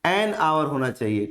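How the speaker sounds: एन आवर, low and clear, hour without h. Shown as a demonstration. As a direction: say एन आवर as the correct form. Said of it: "तो क्या होना चाहिए इसको?".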